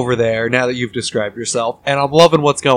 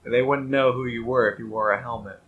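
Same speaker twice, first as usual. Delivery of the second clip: pointed quiet remark; 7 dB quieter than usual. Acted. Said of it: "and say".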